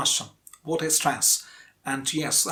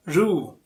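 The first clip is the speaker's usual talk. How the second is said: ROO held long by itself; stressed syllable alone. Shown as a demonstration. Teacher answering her own quiz, stressed ROO. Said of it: "which is a stressed syllable".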